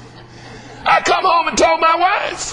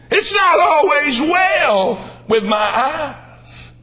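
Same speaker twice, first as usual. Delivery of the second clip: drawn-out preaching line; slow sermon refrain; much slower than usual. Acted. Preacher to congregation, slow drawn refrain. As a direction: lean into the refrain slowly.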